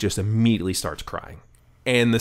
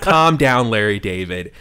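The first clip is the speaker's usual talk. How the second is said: loud retold telling-off, pitched up at first; teasing calm-down; 6 dB louder than usual. Friend teasing the furious ranter, loudly imitated. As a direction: call it out over the laughter.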